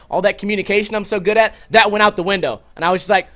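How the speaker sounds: ordinary delivery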